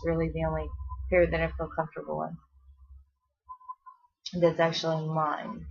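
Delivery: winded, talking between breaths; short of breath while chatting. Real, not acted. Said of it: "I'm still out of breath".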